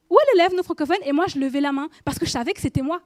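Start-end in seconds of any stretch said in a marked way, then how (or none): 0.1-1.0 louder and higher, calling out again for l'élève non francophone; loud impatient roll call. Retold or imitated. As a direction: insist across the room, impatient.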